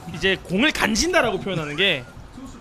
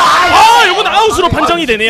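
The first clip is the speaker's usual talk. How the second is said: excited play call; 6 semitones higher, 8 dB louder than usual. Real, not acted. Live call of a fly ball.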